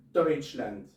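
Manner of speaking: "Deutschland" said slowly as DOYTCH-lant, German style; German pronunciation. Shown as a demonstration. Teacher modelling a German example word, slow and careful. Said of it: "se pronunciará oi, como".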